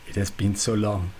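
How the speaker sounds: bad French accent, lightly done; hammed-up French accent. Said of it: "a French accent".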